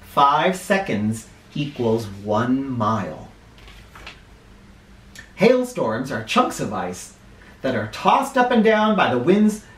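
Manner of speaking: clear, measured read-aloud for a class; reading to children. Acted. Teacher reading a weather book to her class, read-aloud style.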